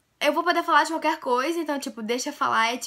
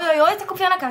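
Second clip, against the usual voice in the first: higher, louder put-on hello; mock youtuber hello; 5 semitones higher, 6 dB louder, much faster than usual. Vlogger testing a greeting, higher and louder. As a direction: try out a catchy channel greeting. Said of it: "Esse vai ser meu oi agora".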